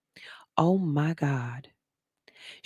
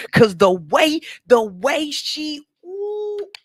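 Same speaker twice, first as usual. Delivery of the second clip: overcome with admiration; 11 semitones higher, 5 dB louder, slower than usual. Real, not acted. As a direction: voice breaking high with delight. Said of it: "overwhelmed praise".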